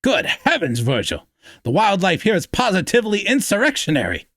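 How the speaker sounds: put-on light Boston accent, high and quick; a hint of a prim Boston boy yelping. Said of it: "hollering in that clipped Boston accent".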